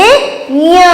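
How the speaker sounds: य with the vowel hummed through the nose; nasalized vowel. Shown as a demonstration. Teacher showing children chandrabindu, nasalized य. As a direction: draw out य as a nasal यँ. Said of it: "इसको हम बोलेंगे".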